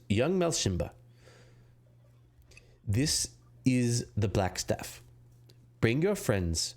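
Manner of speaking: lightly voiced woman of authority, deliberate pauses; authoritative female voice. The Black Staff summons a young adventurer by spell, lightly authoritative. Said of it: "very authoritative female voice".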